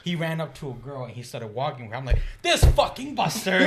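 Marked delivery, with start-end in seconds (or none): 2.4-3.6 loud, higher and slow; annoyed curse. Retold or imitated. Cursing the friend who ditched him, loud and annoyed. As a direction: spit the insult out in disbelief. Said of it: "So I went to class angry".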